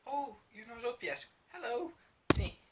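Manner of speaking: high-pitched imitation of a pestering cat; mock cat voice, pitched well up; voicing a cat. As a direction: put on a high little voice for the cat's greeting. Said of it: "keeps coming in and kinda going".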